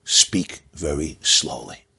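a hint of slow, dry calm; deadpan it slowly, unbothered; calm reply. Organizer calmly answering the boastful professor, lightly slow and dry. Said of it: "he says calmly".

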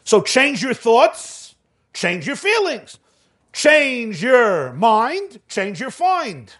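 each change drawn out, very slow like a verse; a teacher turning the lesson into a rhyme; slow poetic emphasis. Shown as a demonstration. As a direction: recite it like a little poem, slowly.

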